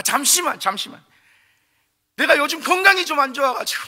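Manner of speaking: whining to God. Acted. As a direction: fuss like a child putting things off. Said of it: "투정 부리듯이". (하나님께 투정 부리듯이)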